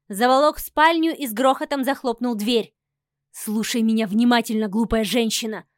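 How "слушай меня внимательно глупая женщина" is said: growled threat. Acted. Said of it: "прорычал он мне в лицо".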